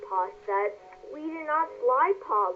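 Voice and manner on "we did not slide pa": exclaiming. A narrator's reading. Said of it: "Laura exclaimed".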